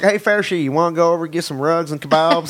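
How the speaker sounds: put-on Southern accent. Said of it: "weird Southern Muslim thing".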